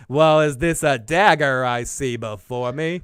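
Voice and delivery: slow, badly faked cowboy drawl; horrible John Wayne. Podcast host quotes Shakespeare mid-chat, in a horrible accent. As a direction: attempt an accent and miss it. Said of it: "that was a horrible accent".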